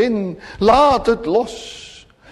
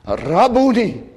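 heartfelt cry; 3 semitones higher than usual. Retold or imitated. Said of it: "uit de diepte van zijn hart".

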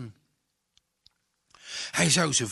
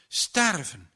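put-on a boy sure he is about to drown cries out, a touch higher and louder; cry in mortal fear; 5 semitones higher, 3 dB louder than usual. Drowning boy cries out that he will die, frightened cry. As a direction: gasp it out in terror, leaning on nu. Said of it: "schreeuwde hij in doodsnood uit".

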